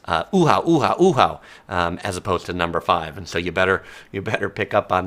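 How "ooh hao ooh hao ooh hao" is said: imitating a waiter's loud Chinese call-out; calling out numbers. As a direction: call the table number across a busy dim sum hall. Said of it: "they will often call out numbers for tables in Chinese".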